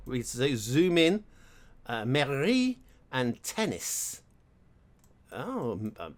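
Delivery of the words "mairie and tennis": put-on slow, drawn-out French accent. Player reading a sign aloud, French accent. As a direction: read it off slowly as if it were French. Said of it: "I said that with a French accent".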